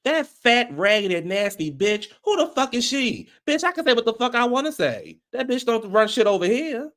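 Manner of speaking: high-pitched indignant tirade; angry rant. Real, not acted. Reviewer venting about Heavenly, high and indignant. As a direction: tear into her, voice way up.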